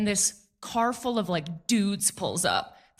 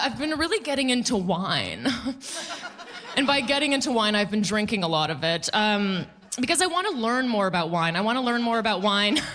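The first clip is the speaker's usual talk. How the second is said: normal talking voice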